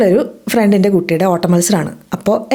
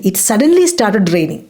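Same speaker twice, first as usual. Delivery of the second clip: slow, careful teacher read; deliberate classroom pronunciation; slow model sentence; much slower than usual. Shown as a demonstration. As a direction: spell it out slowly for learners. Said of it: "എപ്പോഴാ? Suddenly".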